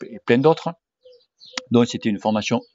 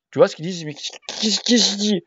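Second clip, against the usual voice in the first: chuchoté perplexe; 7 semitones higher than usual. Retold or imitated. Perplexe devant les termes pointus.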